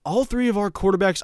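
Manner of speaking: a light Southern drawl, coach at the podium; lazy Southern drawl, hint of a down-home coach; Mike Gundy Southern drawl. Host mimics Gundy's postgame presser in a light Southern drawl. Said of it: "he has a Southern drawl whenever I do his impersonation".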